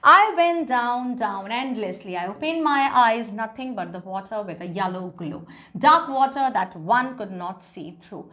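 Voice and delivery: slow, deliberate English reading; story read-aloud. A narrator's reading. Teacher reading a drowning story to class, slow read-aloud. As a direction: read each phrase out slowly for students.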